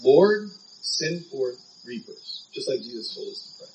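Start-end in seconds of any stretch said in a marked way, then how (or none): 0.0-2.5 slow, spaced-out imitated prayer; recalled prayer with long pauses; public prayer. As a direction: pray it out slowly, leaning on "Lord". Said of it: "I remember a public prayer".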